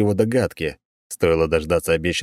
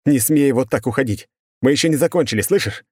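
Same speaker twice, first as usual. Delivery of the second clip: high, loud, breaking growl; desperate angry growl; 7 semitones higher, 4 dB louder than usual. Acted. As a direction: roar it out in helpless rage. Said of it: "Он рычал в бессильной злобе".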